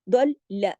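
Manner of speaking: दल ल with ल sounded twice; firm double L. Shown as a demonstration. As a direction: hit both ल firmly, end short. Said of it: "लाम की आवाज दो दफा सख्ती से आए". (दल ल, लाम दो दफा सख्ती से)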